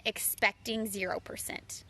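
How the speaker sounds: hushed, breathy whisper on the punchline; soft confiding whisper; whispered aside. Real, not acted. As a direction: drop to a whisper to land the point. Sincere point, dropped to whisper.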